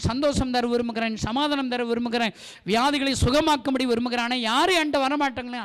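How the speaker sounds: imitating a loud, anguished lament; weeping lament. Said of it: "பாரங்களை சொல்லி சொல்லி அழுகிறார்". (அழுது புலம்புவது போல உரக்க)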